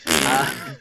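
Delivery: mouth-made raspberry; fart noise. Shown as a demonstration. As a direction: imitate a short, rude fart sound. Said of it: "that was the sound effect".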